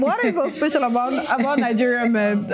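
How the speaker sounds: amused. Real, not acted. Host teasing guest about Nigerian men, amused. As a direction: try to get the question out before laughing. Host cracks up, then re-asks it.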